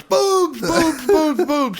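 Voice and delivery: can't hold it in, burst out; patient losing it at each word; wild blurting. Acted. Joke patient blurts, punchline build.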